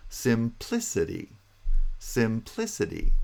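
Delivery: Simplicity as sim-PLI-city, PLI punched; stress on second syllable. Shown as a demonstration. Teacher correcting to second syllable, Simplicity with primary stress on PLI. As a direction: strike PLI in Simplicity, lighter weight on SIM. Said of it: "Primary stress is on the second syllable".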